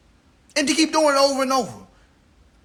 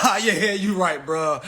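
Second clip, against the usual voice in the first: laughing it off; 6 semitones lower than usual. Retold or imitated. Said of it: "Y'all be trying to laugh it off like".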